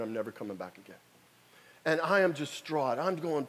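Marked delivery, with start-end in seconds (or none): 0.0-1.0 despairing. Retold or imitated. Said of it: "they said".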